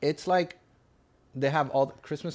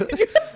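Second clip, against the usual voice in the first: sudden high laugh; a real laugh that breaks out; burst of laughter; 9 dB louder than usual. Real, not acted. Bursts out laughing mid-sentence.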